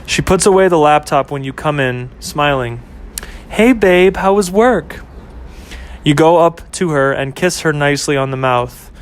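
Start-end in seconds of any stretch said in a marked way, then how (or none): 3.5-5.0 lightly voiced young woman, a bit higher; cheerful girlfriend greeting, pitched up; girlfriend Ashley. Girlfriend greeting her boyfriend home from work, light and bright.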